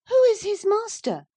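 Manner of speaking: put-on very high, loud pert girl's question; tiresome girl. A narrator's reading. Cathy keeps pestering the lad, high and loud. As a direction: needle him like a spoilt child. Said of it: "continued the tiresome girl".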